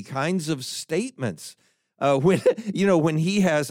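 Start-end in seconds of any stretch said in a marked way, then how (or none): 2.0-3.7 laughing. Real, not acted. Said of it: "I'm laughing now".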